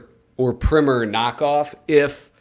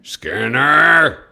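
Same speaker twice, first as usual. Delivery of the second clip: yelled name; 4 semitones higher, 7 dB louder than usual. Pretend. Yelling the name in a voice.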